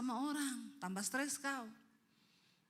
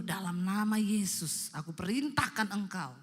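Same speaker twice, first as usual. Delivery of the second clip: commanding rebuke; 6 dB louder than usual. Acted. Istri mengusir setan dari suaminya.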